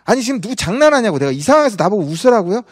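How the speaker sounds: retold angry objection, lightly performed; mock indignant protest. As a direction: act out someone griping back, mildly heated. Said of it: "막 그렇게 막 화를 내죠".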